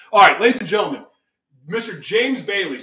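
loud showman intro to the crowd; big welcome to the audience; announcer call. Real, not acted. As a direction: boom it out like a game show host. Host announcing guest to audience.

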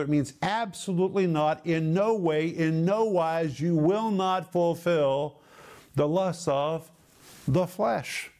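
slow, deliberate weight on "absolutely not, in no way"; emphatic negation. Shown as a demonstration. Preacher explaining Paul's double negative, emphatic on "not". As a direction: stretch "will not fulfill" firmly, pausing before "the flesh". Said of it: "which is emphatically no".

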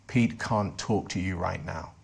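lightly voiced intruder, low and slow; retold alien voice. Voice from his mouth answers his friend, lightly voiced, low and slow. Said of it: "a voice came out of my mouth that wasn't my voice".

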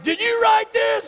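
high, loud retold dad shout; angry father's demand. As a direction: shout it slowly as an accusing dad. Angry father confronts his son.

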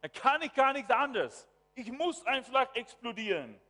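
loud, high protest of someone losing control; acted angry outburst. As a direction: burst out as if you cannot help exploding. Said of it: "wenn ich wirklich zornig werde".

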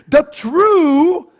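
"true" drawn out with weight; stress on true. Shown as a demonstration. Preacher quoting Galatians, heavy stress on "true". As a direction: lean on "true" and lift it. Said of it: "I want to stress this word".

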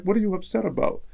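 high-pitched, puzzled protest; puzzled retold question. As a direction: ask it high, as if baffled by the reaction. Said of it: "And I'm like".

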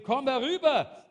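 a sudden loud, high call across the field. Retold or imitated. Preacher voicing Goliath calling out to David, loud and high. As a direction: bellow the challenge like a giant. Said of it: "ruft er hier".

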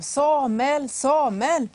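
loud, high call of a name; a voice calling through the night. Acted. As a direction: call him from afar. God calling the boy at night.

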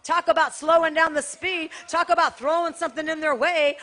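slowing lifted and pushed. Shown as a demonstration.

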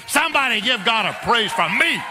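rally the church, full voice; shouted call for praise. Real, not acted. Preacher calls out to congregation.

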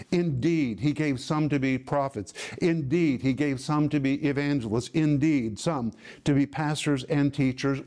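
each "Indeed" punched at the start; emphatic INDEED. Shown as a demonstration. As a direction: hit every "Indeed" like an exclamation mark. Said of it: "it really means he gave emphatically".

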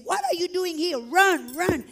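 high, urgent warning; imitating a frantic security officer; alarmed security lady. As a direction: cry out in alarm to send someone fleeing. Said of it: "a lady from the security ran to me".

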